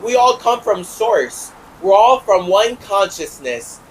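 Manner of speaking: put-on high, slow singsong like a naive child; childish mockery. Mocking grown believers as little children, high and slow. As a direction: parrot them like a dreamy little kid. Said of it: "little children or whatever being like".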